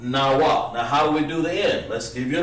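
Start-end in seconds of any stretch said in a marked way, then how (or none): 0.0-0.7 Nawa said as one smooth word; teacher's model word. Shown as a demonstration. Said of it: "then we say".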